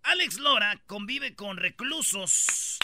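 slow, spaced-out headline read; deliberate radio-host headline; headline announcement. Real, not acted. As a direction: announce it slowly, word by word.

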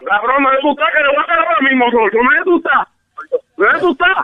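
furious, daring the caller to say where he is; angry yelling. Real, not acted. Man on a prank call, furious about his mother, yelling demands. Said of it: "está gritando como un pendejo ahí".

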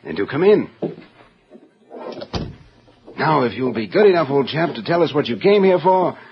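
a lightly put-on upper-class English accent. Crook greeting the stranger in a mild put-on English accent. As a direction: play the genteel English gentleman. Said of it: "Don't forget your accent".

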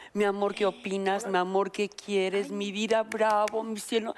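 sugary wifey voice, lightly done; mock sweet talk. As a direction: coo it like a doting girlfriend. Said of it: "tienes que bajarle, hacerte la güey". (voz melosa de novia, un poco burlona)

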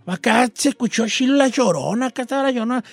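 imitated northern Mexican Sonora accent; playful take on Sonora speech; Sonoran accent. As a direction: mimic a Sonoran, softening the ch sounds. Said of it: "los de Sonora dicen".

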